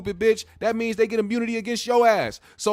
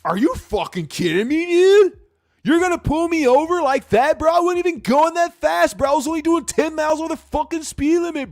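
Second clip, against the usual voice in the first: put-on high, loud, indignant Chad bro accent; hammed-up outraged Chad accent, pitched way up; 8 semitones higher, 6 dB louder than usual. Chad pulled over by police, indignant Chad accent. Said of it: "That's my Chad accent".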